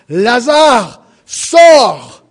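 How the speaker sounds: high, loud command ringing out; loud cry. Acted. Jesus calls Lazarus out of the tomb, loud commanding cry. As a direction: call the dead man out of the tomb. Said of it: "il cria d'une voix forte".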